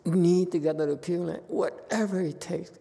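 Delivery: a hint of a pleading old woman; desperate devotee. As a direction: imitate someone begging to reach the Pure Land. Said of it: "and they say".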